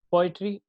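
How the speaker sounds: पोएट्री stressed on पो, rest light; stress on first syllable. Shown as a demonstration. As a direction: hit पो in पोएट्री. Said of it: "इसमें one stressed है". (पोएट्री के पो पर ज़ोर)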